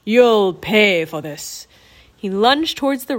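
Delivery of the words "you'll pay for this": loud, slow vengeful threat; angry screech. A narrator's reading. Raven King threatening the bird who betrayed him, angry screech. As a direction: threaten loudly, drawing out the words. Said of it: "screeched at Rourke".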